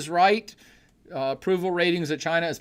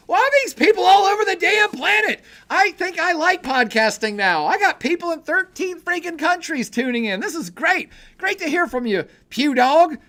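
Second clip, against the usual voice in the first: much higher and louder, genuinely thrilled; real excitement; 11 semitones higher, 5 dB louder than usual. Real, not acted. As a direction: shout it to the whole planet. Thrilled at worldwide viewers.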